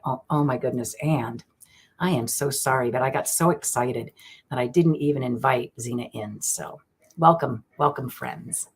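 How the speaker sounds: normal talking voice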